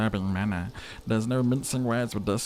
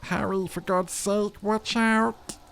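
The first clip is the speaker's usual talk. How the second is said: urgent warning shout; 9 semitones higher, slower than usual. Acted. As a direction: scream the warning to Harry. Skill voice warns of gunman.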